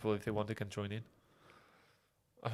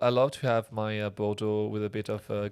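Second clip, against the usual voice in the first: Parisian accent. Shown as a demonstration. Mock Parisian praising Bordeaux and tear gas, Parisian accent. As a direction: imitate a languid Parisian. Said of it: "that's the Parisian people".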